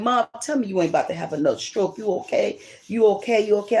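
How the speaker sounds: retold anxious questions, rising in pitch and repeated; worried daughter. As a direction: voice a worried daughter checking on mom. Daughter alarmed at possible stroke.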